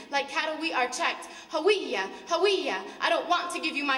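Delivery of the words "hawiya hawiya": louder barked command, each word dropping at the end; soldier's yell. Retold or imitated. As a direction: shout it like a checkpoint order. Soldier demanding ID at checkpoint.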